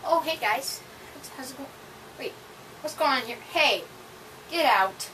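startled greeting turning to yell; surprised then shouting. Acted. Skit, surprised then shouting intruders out.

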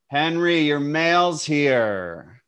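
calling out slowly to a customer. Acted. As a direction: call the name across the yard, drawn out.

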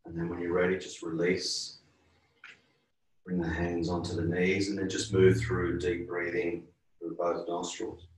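calm, unhurried yoga teacher voice, softening at line ends; guided relaxation. Real, not acted. Yoga teacher guiding a class through breathing, calm guided relaxation. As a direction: ease them gently toward rest.

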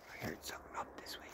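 fast, tense whisper. Real, not acted. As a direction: keep it barely audible, wary of a noise. Tense in woods, heard noise.

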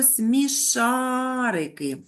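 dictated slowly syllable by syllable; stretched dictation voice. Shown as a demonstration. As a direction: spell it out slowly for the class. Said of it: "пишемо на наступному рядочку слово".

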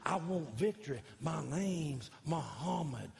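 a hint of Ali boasting, slow in places; lightly voiced boxer bragging; Muhammad Ali. Pastor doing Ali for Ali himself, light boast. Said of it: "I did that for Muhammad Ali".

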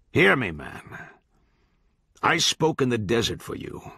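lightly voiced judge, solemn and oratorical; sermonizing judge. Judge reproaching the kid who broke faith, solemn oratory. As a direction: pronounce judgment like scripture.

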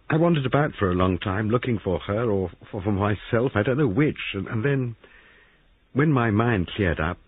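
muffled, speaking into his hands; muffled, face buried in hands. A narrator's reading. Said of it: "spoke in a muffled voice".

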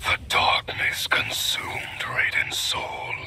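slow, ominous whisper. Acted. Shadow warrior warning an enemy about Raiden, slow whisper. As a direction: breathe the words like a dark secret.

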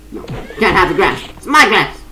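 high, grumpy animal voice; possessive animal voice. Pretend. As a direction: voice the zebra guarding its grass. Voicing the zebra.

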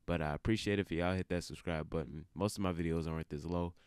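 half-awake at three a.m; tired. Real, not acted. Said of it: "I'm very tired".

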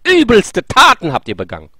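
Jesus condemning. Retold or imitated. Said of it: "Nein, er sagt".

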